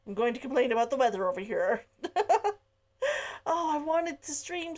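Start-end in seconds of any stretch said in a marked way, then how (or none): 0.1-2.2 laughing. Real, not acted. Laughing aside about the weather.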